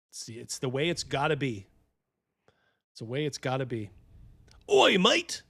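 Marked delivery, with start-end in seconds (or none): 4.7-5.4 high, loud mock British "oi mate"; mock British greeting; British accent. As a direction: bark it like a cheeky British bloke. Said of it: "says Osiris Zoron".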